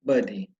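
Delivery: "Buddy" as "bádi", short and falling; British buddy. Shown as a demonstration. Teacher models the British word for pupils. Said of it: "nós falamos buddy".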